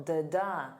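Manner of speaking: da-da with the second da strong; stress pattern tapped out. Shown as a demonstration. Teacher beating the rhythm of dessert, second beat strong. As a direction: beat out da-da, light then heavy. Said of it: "The syllable stress is on the second syllable".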